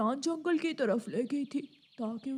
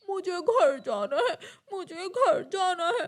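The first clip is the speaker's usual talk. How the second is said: wailing to go home, sobbing; a small crow sobbing for home; crying; 3 dB louder than usual. Acted. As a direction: cry it like a lost little bird. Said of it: "Jaggu कौवा रोने लगता है।".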